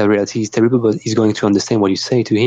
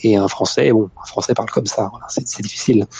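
slow soft French; faster than usual. Retold or imitated. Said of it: "the French accent".

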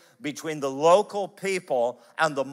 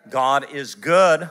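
louder and slow, leaning on good; emphatic proclamation; 7 dB louder, slower than usual. Shown as a demonstration. Preacher repeating it to the congregation, louder and slower. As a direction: proclaim it slowly, each word weighty. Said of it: "repeats the line".

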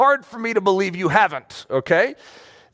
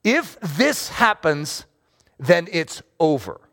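anxious quote; 2 semitones lower, slower than usual. Retold or imitated. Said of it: "I'm guilty of having this quote".

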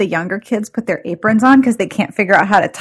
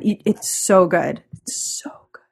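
whisper; 3 dB quieter, slower than usual. Real, not acted. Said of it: "whispering to herself".

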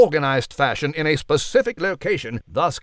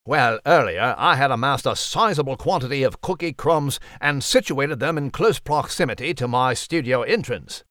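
lightly voiced posh English mouse; a prim old chap of a mouse; mouse character. Mouse Nigel continues.

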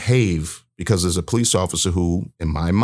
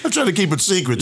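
laughing; 11 semitones higher, faster than usual. Real, not acted. Laughs about outing the officer.

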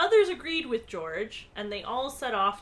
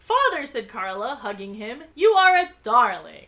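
delighted; 9 dB louder than usual. A narrator's reading. Carla hugs her father with praise, delighted gushing. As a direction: gush like a delighted daughter.

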